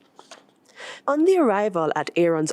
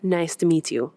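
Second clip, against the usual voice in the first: chiming greeting. Acted. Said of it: "Tiana chimes".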